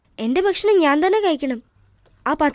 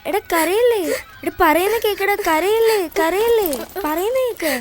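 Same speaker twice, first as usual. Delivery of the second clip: higher-pitched, repeated urging; coaxing plea; 3 semitones higher than usual. Acted. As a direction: plead with a crying friend to stop. Child urges crying friend to stop. (കരയരുതെന്ന് കൊഞ്ചി അപേക്ഷിക്കുന്നു)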